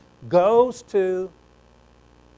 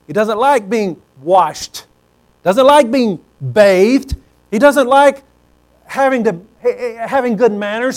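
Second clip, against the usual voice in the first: building emphasis; 2 semitones higher, 5 dB louder than usual. Acted. Preacher builds emphasis on pig.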